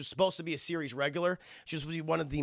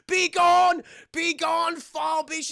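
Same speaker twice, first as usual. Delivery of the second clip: much higher, loud commanding banishment; mock exorcism shout; 11 semitones higher, 6 dB louder, much slower than usual. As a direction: cast the demon out with full force. Constantine exorcising the demon.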